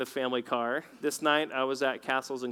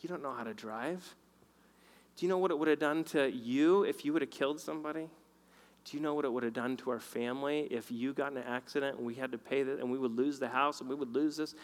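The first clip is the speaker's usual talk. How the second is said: gentle rebuke; 4 dB quieter, faster than usual. Retold or imitated. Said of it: "he was so gentle".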